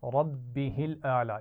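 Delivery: slow Quranic recitation of "रब्बिहिल आला" with a heavy ra, both words joined; "रब्बिहिल आला" drawn out, ra thick and the words run together; tajweed demo. Shown as a demonstration. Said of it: "इसमें रा मोटी पड़ी जाएगी".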